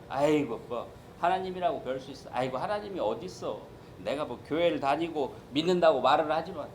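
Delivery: doubter scoffing. Retold or imitated. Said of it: "방정맞은 생각을 하는 거".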